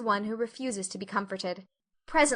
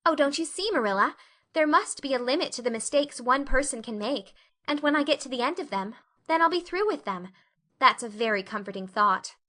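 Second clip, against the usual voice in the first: eager Anne; 2 semitones higher than usual. Acted. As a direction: talk herself into hope. Anne earnest, cheering up.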